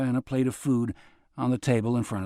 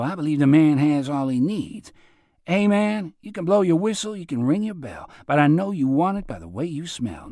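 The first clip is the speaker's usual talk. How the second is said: lightly raised, playful hustler rhyme; teasing singsong; 5 semitones higher than usual. Acted. Robert ribbing Tonto about girls, playful singsong. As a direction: tease him with the rhyme, swaggering.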